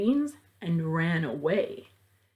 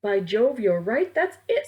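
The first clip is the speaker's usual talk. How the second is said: excited cry; 3 dB louder than usual. Acted. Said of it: "Sam cried".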